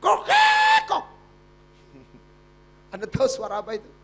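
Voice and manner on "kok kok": 1 bird call imitation. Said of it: "Suaranya begini".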